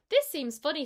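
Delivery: kitten voice. Acted. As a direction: voice the kitten, a bit lifted. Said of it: "said Tom Kitten".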